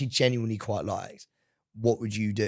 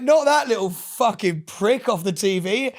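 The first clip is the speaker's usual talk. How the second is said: put-on high, loud, slowed rock-band-style accent; mock the lad's rock-band accent, loud and drawn out; 9 semitones higher, 6 dB louder, slower than usual. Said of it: "in his whatever rock-band accent that he has".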